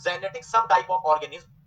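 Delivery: said again slowly, ending on a rise; "Genetic subtype of organism" drawn out, voice rising; slow repeat. Shown as a demonstration. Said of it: "clear है?". (धीमे दोहराना, अंत में सुर ऊपर)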